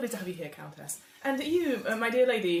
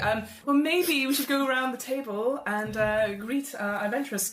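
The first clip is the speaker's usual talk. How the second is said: raised, hearty aristocratic host voice; genial Earl host; 2 semitones higher than usual. Acted. The Earl of Weston-super-Mare welcoming guests to his club, hearty and raised.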